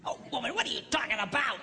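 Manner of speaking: high, scoffing and amused; mock dismissive husband. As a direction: brush her off with a laugh. Husband's retort in retold exchange.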